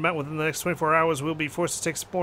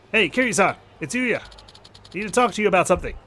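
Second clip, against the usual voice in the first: put-on upbeat, lively young host; chatty young host; friendly young man voice; 2 semitones higher, faster than usual. Yuya calls Kiryu.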